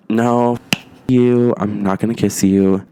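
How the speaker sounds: loud firm rejection; angry refusal. Retold or imitated. Woman refusing the guy's kiss, loud and angry. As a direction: shut him down hard.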